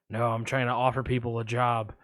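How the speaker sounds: a hint of Buffalo Bill, low; creepy caller. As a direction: lurk low like a shady caller. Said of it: "I'm gonna play both parts".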